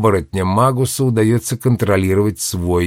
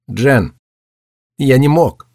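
sobbing; 4 semitones higher, slower than usual. Acted. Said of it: "всхлипнул мальчик".

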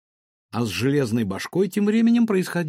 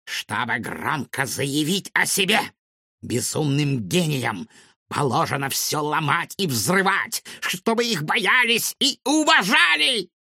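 mad scientist; 2 semitones higher than usual. Acted. Villain explains his motives.

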